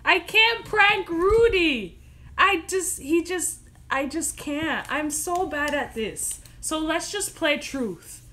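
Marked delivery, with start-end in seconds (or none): 0.0-4.9 laughing refusal. Real, not acted.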